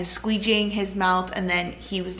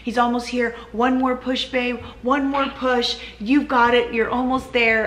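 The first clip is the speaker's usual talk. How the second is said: imitating his excited coaching, higher; emotional encouraging; 4 semitones higher than usual. Wife retelling husband coaching the last push, excited and higher. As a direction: cheer her on like the husband did, pitched up. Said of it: "He was getting emotional".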